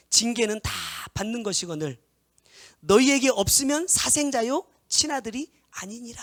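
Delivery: loud, slow, proclaimed verse; loud scripture reading. Acted. (성경 구절을 크게 선포하듯)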